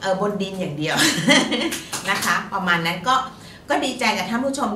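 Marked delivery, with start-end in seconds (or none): 1.0-2.0 short bright laugh with a rising end; a quick real giggle. Real, not acted. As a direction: laugh at her own modest lottery win. Laughs at her own small win.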